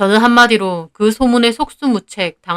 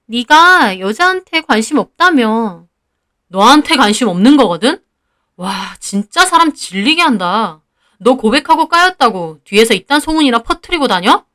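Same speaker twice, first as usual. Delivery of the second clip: indignant, disgusted comeback; acted scorn with moderate force; worked-up anger. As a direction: throw the accusation back, mildly heated. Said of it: "제가 막 흥분해서 소리를 지르자".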